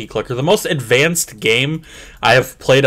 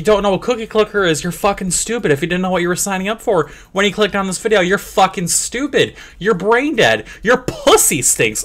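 higher, fast mock-angry rant; hammed-up fury at viewers; mock aggression; 6 semitones higher than usual. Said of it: "I'm getting aggressive".

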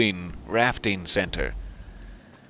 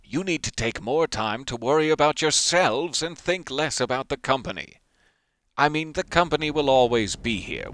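mock scolding boss; 4 semitones higher than usual. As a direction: play a pompous boss scolding staff. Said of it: "I will scold my staff".

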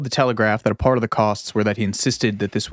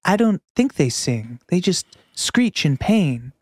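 brooding Herzog intoning nature's misery; Werner Herzog impression; 4 semitones higher than usual. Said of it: "I just do Werner Herzog monologues".

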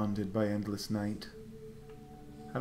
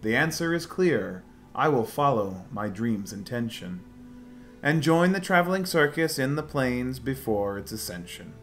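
theatrical rhyming recitation; dramatic letter reading; 2 semitones higher than usual. Acted. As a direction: read the letter like a stage poem. Reads character's rhyming letter.

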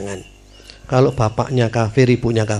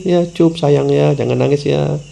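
tender soothing; 3 semitones higher, slower than usual. Retold or imitated. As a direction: hush it gently like calming a little one. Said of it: "dilus-lus kayak anak kecil". (lembut menenangkan, pelan seperti membujuk anak kecil)

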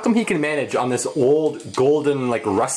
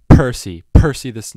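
loud mic-test delivery; too loud; 10 dB louder than usual. Real, not acted. Narrator doing a sound test, too loud. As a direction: push the name too hard into the mic. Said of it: "no, too loud".

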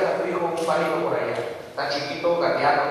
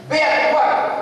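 mock dog owner's command; 10 semitones higher, 4 dB louder than usual. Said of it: "O sea".

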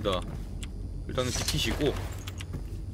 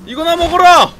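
even higher, loud taunt; taunting shout; 13 dB louder than usual. Acted. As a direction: hurl it like a battle taunt. Throws corpse again.

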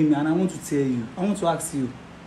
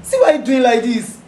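tearful plea; 3 semitones higher than usual. Acted. Friend confronts, starts crying.

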